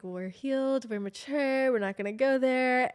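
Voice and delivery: high, insistent mock mantra; self-calming mantra. Woman telling herself not to react to boyfriend, high mantra.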